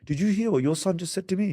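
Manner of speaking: wife complaining to her husband about their son, high and indignant; outraged mother. Retold or imitated. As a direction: tell on the child in a shocked high voice. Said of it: "And they'll go".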